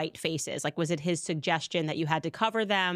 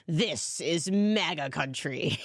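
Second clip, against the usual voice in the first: savoring a quoted line; 3 semitones lower, slower than usual. Retold or imitated. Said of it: "It's just objectively".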